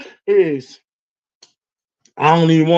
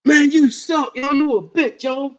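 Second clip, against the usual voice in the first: mock jeering; 5 semitones higher than usual. Imitating jeering drunk parents.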